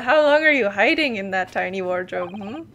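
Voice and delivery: put-on light Russian-accented interrogator. Sailor questioning a suspect found in the wardrobe, Russian accent. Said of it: "Maybe I do have to give him a Russian accent".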